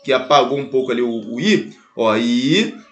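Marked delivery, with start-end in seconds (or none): 2.2-2.8 "ideia" split into long i, dei, a; syllable by syllable. Shown as a demonstration. Teacher rewrites the example, "ideia" syllable by syllable. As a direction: draw out each syllable of "ideia" with pauses. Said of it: "deixar melhor estruturado ali".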